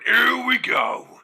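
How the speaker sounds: loud, high, slow drawn-out gloat; gloating opponent. Retold or imitated. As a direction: crow it like you're standing on the table. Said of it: "standing on the table just going".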